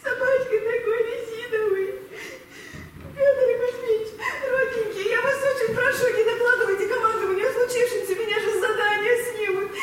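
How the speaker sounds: begging through sobs and laughter; plead, half crying, ashamed; the lieutenant begs the captain not to report her, crying; tearful pleading. Acted. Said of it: "Убрать сопли".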